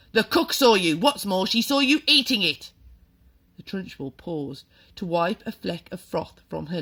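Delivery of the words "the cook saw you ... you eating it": loud, higher accusing shout; furious headmistress. A narrator's reading. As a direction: nail him with the proof. Trunchbull accusing the boy.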